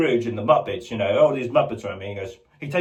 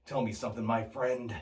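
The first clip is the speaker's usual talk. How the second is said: soft, menacing Joker; quiet sinister purr; Jack Nicholson; 9 dB quieter than usual. Retold or imitated. Joker asking a stranger, soft menace. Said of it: "Jack Nicholson".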